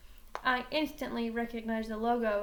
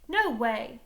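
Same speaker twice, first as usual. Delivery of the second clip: retort; 6 dB louder than usual. Acted. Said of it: "I retorted".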